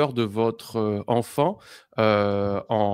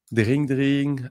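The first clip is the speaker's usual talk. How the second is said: imitated phone ring; 3 semitones higher than usual. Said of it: "Je décroche le téléphone".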